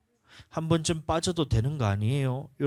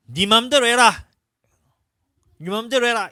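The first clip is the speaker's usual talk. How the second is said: threatening warning; 9 semitones higher, 8 dB louder than usual. Retold or imitated. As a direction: let menace sit under it. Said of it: "그러면 어떻게 하냐면".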